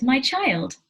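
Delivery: urgent interruption. A narrator's reading. Marquez interrupts his child, loud and urgent. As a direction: call out over the other speaker, high and loud. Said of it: "interrupted Marquez".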